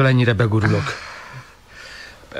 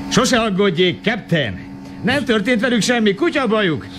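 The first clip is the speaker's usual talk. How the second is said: eager reassurance; 11 semitones higher than usual. Acted. Reassuring the worried captain.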